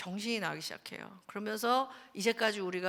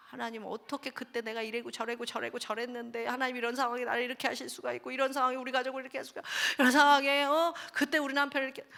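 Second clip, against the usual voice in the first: rising, faster, mock anguished complaint to God; mock complaining prayer; 2 semitones higher than usual. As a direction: pour out grievances, building to an outburst. (하나님께 따지듯 점점 격해지는 불평 기도)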